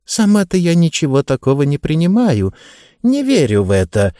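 put-on high, sweet old lady; light elderly woman's voice. Mrs Lancaster voiced in audiobook.

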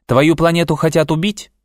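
put-on high child's voice asking in disbelief; troubled boy. A narrator's reading. Darri asks Pyotr about his threatened planet, troubled boy. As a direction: ask high, like an alarmed child.

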